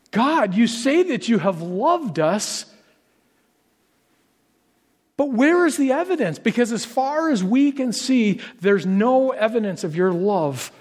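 high, emphatic challenge to God; acted complaint. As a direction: voice an indignant people demanding evidence. Acts out the people's complaint to God.

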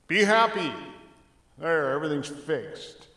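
mock the easy fix; mock glib cheer. Pastor mocking a shallow quick fix, sarcastic. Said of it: "if it was that simple".

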